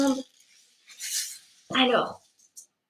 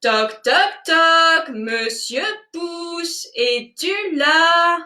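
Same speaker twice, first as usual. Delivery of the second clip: louder sing-song call; 4 semitones higher, much slower than usual. Shown as a demonstration. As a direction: call out louder to wake him. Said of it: "Allez, encore plus fort".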